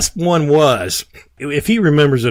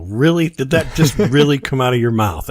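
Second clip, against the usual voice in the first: incredulous; 3 semitones higher, 3 dB louder than usual. Pretend. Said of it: "look at him and go".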